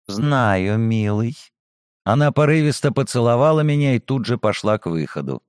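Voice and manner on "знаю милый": femme fatale. Acted. Flirty reply to compliment.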